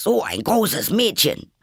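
high, loud stern rebuke; self-scolding. A narrator's reading. Alice scolding herself for crying, high and loud. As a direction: shame yourself sharply.

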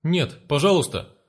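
father begging the thug boss for mercy; pleading. Acted. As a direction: beg for mercy, drawing it out. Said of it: "взмолился отец".

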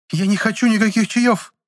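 high, loud stroppy refusal; stamping refusal. A narrator's reading. Aunt stamping her foot at the chemist. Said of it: "топнула ногой тётка".

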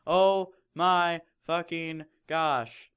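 slow, drawn-out fangirl gasp; hammed-up fangirl excitement; mock gush. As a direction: gush like a starstruck fan. Reading fanfic heroine's excitement.

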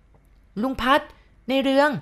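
high, drawn-out woman's call; loud, clear call. A narrator's reading. Mysterious woman calls to Uncle Phat at night, calling out high and clear. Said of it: "เสียงนั้นเรียก แต่ว่าดังชัดเจน".

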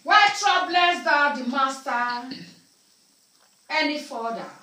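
slow preacher's shout; slow, drawn-out, ringing pulpit shout; booming scripture read. Acted. Preacher to the congregation, slow booming shout.

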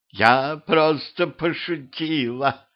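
slow, high, creaking little voice; creaky. A narrator's reading. Blonde head whining from the floor, creaky. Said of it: "проскрипела голова с пола".

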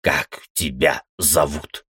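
slow, clenched and seething; through gritted teeth. Acted. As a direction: squeeze each word out. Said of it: "затем процедил".

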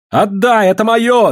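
high, loud desperate cry from the crowd; shouting. A narrator's reading. Woman in the crowd crying out at police, loud shout. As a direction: scream it as they take your money. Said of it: "закричала в толпе женщина".

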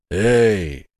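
lightly voiced husky bass of a tall lad; a rough young man calling over the gate. A narrator's reading. Lad at the gate hailing Ralph, rough bass. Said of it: "послышался хриплый бас".

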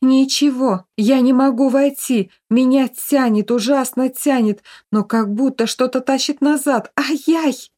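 high, straining panic; panicked. A narrator's reading. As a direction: cry out while being pulled away. Ghost pulled, panicking. (высоко, в панике)

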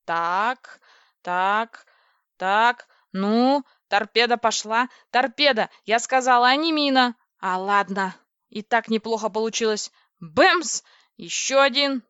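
loud, punchy running commentary; excited battle chatter. Acted. Heroine at the keys in space battle, excited. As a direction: fire off each strike loudly.

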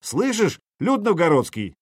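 calling out high over a crowd; a commander hailing the townsfolk. Acted. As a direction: raise the voice to reach the whole street. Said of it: "Сергей повысил голос".

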